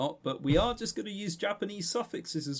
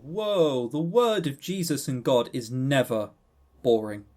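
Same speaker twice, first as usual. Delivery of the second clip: mock outrage; 3 semitones lower, 5 dB louder than usual.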